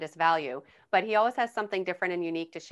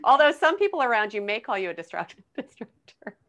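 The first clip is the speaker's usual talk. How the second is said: louder, higher, laughing through the jab; laughing tease; 4 semitones higher, 7 dB louder than usual. Real, not acted. Co-host teasing the host about being a disruptor, laughing. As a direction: needle him with a laugh.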